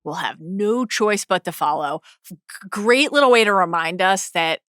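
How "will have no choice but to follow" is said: slow, understated smug quote; a touch of self-satisfaction, drawn out slowly. Retold or imitated. Host imitating Ormond's boast about Highgarden, mildly smug. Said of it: "Ormond is so smug about this".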